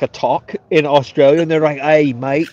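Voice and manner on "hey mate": mock Australian accent. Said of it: "It's not as Australian as I would like".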